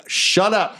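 high-pitched goblin telling-off; mock scolding. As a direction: cut them off in a high voice. Jerry silences the objecting goblins.

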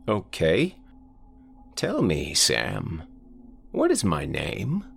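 put-on old man voice. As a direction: croak it like a frail old man.

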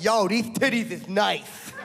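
toothless inmate with a lisp; slow lisping prison thug. Acted. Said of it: "the lisp makes it more humiliating".

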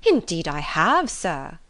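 slow, drawn-out emphatic reply; a hint of an overdramatic mother; lightly voiced fussy mother. Mrs Bennet answers Bingley in novel.

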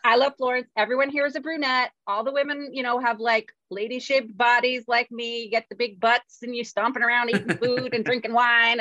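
carried-away retold delight; retold gushing. Retold gushing over Florence.

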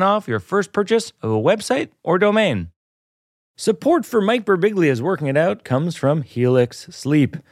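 upbeat host-read commercial. Acted. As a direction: sell it like a podcast ad. Host reads sponsor ad.

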